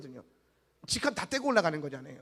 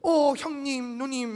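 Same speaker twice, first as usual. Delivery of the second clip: mock family greeting; 3 semitones higher, 3 dB louder, much slower than usual. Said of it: "막 이래요".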